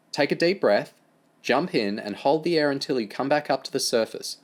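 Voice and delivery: lightly voiced Amy, encouraging; lightly voiced swim teacher Amy. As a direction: coax him gently into the pool. Amy coaching James at pool.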